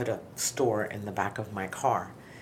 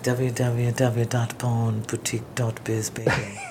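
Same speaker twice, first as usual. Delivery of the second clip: radio DJ voice; 3 dB louder, slower than usual. Pretend. Slow mock radio plug.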